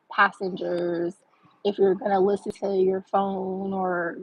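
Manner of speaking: lightly imitated bus announcement, slow and measured; a hint of automated announcement, words spaced out; intercom message. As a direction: recite it like a recorded policy reminder, slowly. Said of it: "in the message on the intercom".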